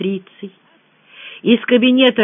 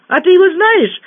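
high, louder question of surprise; surprised; 11 semitones higher, 5 dB louder than usual. A narrator's reading. Rita asks narrator about Kayurov, surprised. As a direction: shoot up in pitch, astonished. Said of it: "удивилась Рита".

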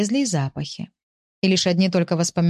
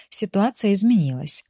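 plain reading voice

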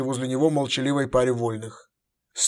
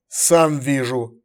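through teeth; much slower than usual. Acted. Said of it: "сквозь зубы ответил император".

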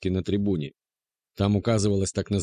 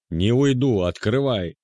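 louder, higher refusal; stubborn shout; 4 semitones higher, 5 dB louder, slower than usual. A narrator's reading. Jealous man refusing to leave, yelling. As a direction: refuse and yell open.

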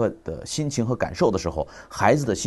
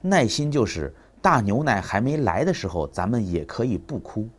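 slow, gentle father explaining; patient explaining to child. Retold or imitated. Father defining patience for his crying son, slow and gentle. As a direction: spell it out tenderly for a toddler. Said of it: "爸爸告诉你哈，".

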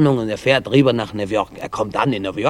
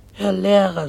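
higher, pleading address; 7 semitones higher than usual. A narrator's reading. Father begs the teacher, pleading. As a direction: appeal to him, voice lifted. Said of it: "sagt der Jüd bittend".

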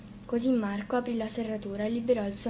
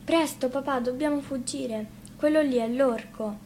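urgent warning; 3 semitones higher, 4 dB louder than usual. Acted. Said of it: "disse Bianca".

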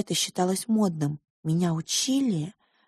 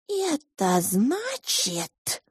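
little mouse voice; 8 semitones higher, much slower than usual. Acted. Pink mouse character voice.

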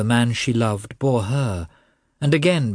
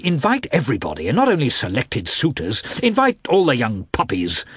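louder, much higher angry tirade; shouting rudely; 4 semitones higher, 3 dB louder than usual. A narrator's reading. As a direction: flare up and rant at the wife. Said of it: "began to shout rudely".

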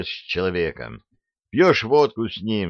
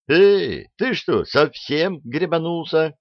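high, outraged shout; indignant yell; 8 semitones higher, slower than usual. A narrator's reading. Brothers to the pistol-waving technician, yelling in outrage. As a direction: yell it in high-pitched disbelief. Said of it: "заорали Артемьевы".

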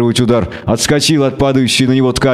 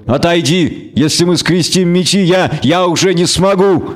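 a raised, urgent plea that catches on я; pleading witcher; 5 semitones higher than usual. Acted. Geralt begs Renfri not to fight, urgent plea. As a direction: beg her to step back.

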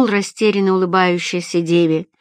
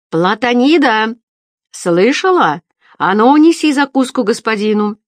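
louder, higher bossy call; shouting at wife; 4 semitones higher, 5 dB louder than usual. A narrator's reading. Baker yelling for his wife to bring food, bossy. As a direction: bark the order to the back room.

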